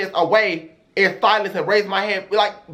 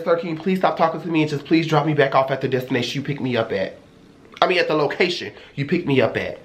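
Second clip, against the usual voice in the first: proper and catty; 5 semitones lower, faster than usual. Retold or imitated. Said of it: "I started being proper and catty".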